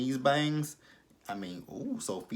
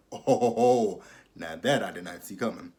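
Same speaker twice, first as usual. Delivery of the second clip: shocked gasp; 5 dB louder than usual. Real, not acted. Shocked by the twist.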